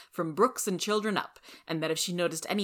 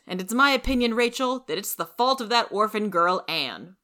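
a touch louder, brisk neighbourly Marilla; 4 semitones higher, 7 dB louder than usual. Acted. Marilla greeting Rachel at her door, brisk and loud.

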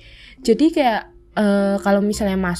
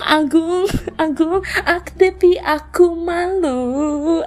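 shy calling; 6 semitones higher, much slower than usual. Retold or imitated. Shy little girl calling crush.

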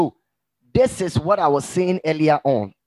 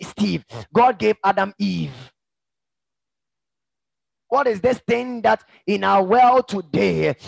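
forceful preaching; 4 dB louder than usual. Acted. Preacher rebuking the world today, forceful preaching. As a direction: drive each point home, pitch climbing on the list.

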